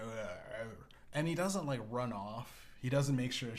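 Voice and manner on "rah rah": short, slurred wordless grunt; unintelligible mumble-growl. Acted. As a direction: dumb brute's inarticulate reply. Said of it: "he runs something unaudible".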